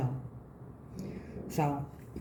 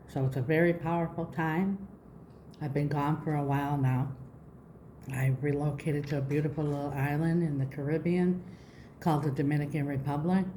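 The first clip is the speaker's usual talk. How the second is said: slight lisp on s sounds. Real, not acted. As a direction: speak with a post-surgery lisp. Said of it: "please excuse my lisping".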